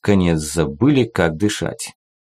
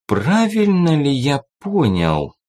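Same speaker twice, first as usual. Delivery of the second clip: icy, slow, higher menacing ruler; cold rasping evil emperor; 6 semitones higher, slower than usual. A narrator's reading. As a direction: chill the words like a cruel emperor. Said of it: "ледяным тоном проговорил монарх".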